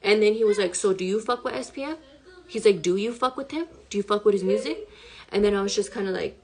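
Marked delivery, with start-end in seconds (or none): 0.8-4.9 menacing quote. Retold or imitated. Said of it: "his whole demeanor changed".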